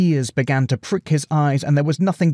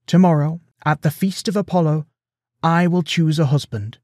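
high, projected announcement; raised, ceremonial proclamation; addressing the room; 6 semitones higher, 3 dB louder than usual. A narrator's reading. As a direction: declare it to a full hall. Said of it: "she told the room".

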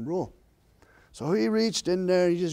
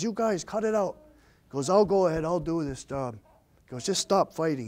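calling out to stop a fight; 2 semitones higher, 4 dB louder than usual. Acted. Turkey buzzard stepping between arguing birds, calling out. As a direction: step into the middle and tell them to stop.

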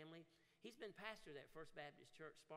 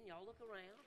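loud, high rallying call over applause; rally the crowd to clap, loud and high; calling out to the room; 6 semitones higher, 10 dB louder, slower than usual. Real, not acted. Pastor calling the congregation to applaud their ministers, loud.

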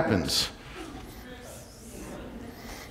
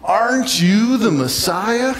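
higher, mildly taunting quote; hurled insult; 5 semitones higher, slower than usual. Retold or imitated. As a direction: taunt him, drawing out the last two words. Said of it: "hurled insults at him".

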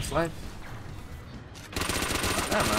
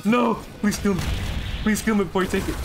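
mock pleading; 7 semitones higher than usual. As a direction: beg the enemy in jest. Mock begging an enemy.

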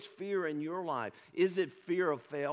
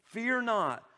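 a louder, unison-style recitation; louder congregational reading; 3 semitones higher, 6 dB louder, slower than usual. Shown as a demonstration. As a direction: read it out loud with the church. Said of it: "Read that with me".

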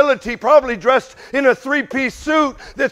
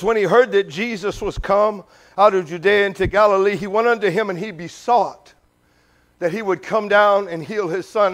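King James reading; 3 semitones lower than usual. Shown as a demonstration. Preacher reading King James scripture aloud, solemn. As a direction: read the old verse with weight. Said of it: "Let me show you what King James says".

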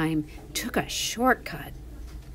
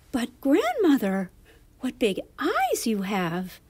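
put-on wondering little girl; 4 semitones higher, 4 dB louder than usual. Narrator voices amazed little girl.

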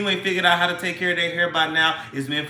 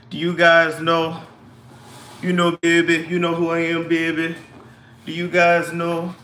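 put-on New Orleans accent. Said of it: "put on my best New Orleans accent".

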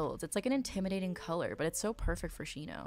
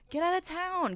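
delighted disbelief; 11 semitones higher than usual. Real, not acted. Stunned by a cute detail.

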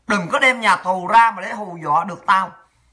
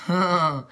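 scoffing laugh; 4 semitones lower, 4 dB quieter than usual. Real, not acted. Scoffs at reported attacks on her.

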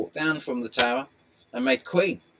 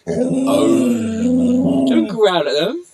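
much higher, louder, drawn-out telling-off; scolding the dog; 12 semitones higher, 12 dB louder, much slower than usual. Real, not acted. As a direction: pitch it up and draw it out at the growling dog.

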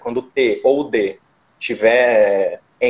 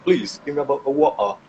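British "water" with a clear T and no final R; posh British accent, lightly played. Shown as a demonstration. British accent, the teacher showing the posh version. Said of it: "tem o, o gap".

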